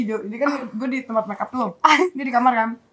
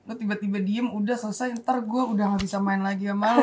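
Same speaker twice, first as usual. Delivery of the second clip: hushed, earnest retold plea; subdued plea; 3 semitones lower, 6 dB quieter than usual. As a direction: imitate a soft, low worry. Re-enacts quiet heart-to-heart.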